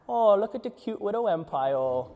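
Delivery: lightly voiced, fond God cooing at a tiny empire; a hint of a doting giant talking down to a toy; amused God looking down. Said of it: "And he looks down".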